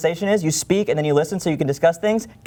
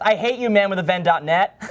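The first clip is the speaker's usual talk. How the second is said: mildly hammed-up all-caps complaint, higher pitch; all-caps reading; 4 semitones higher than usual. Reading an angry moving-company review to the co-host, mock all-caps rant. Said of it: "just says in all caps".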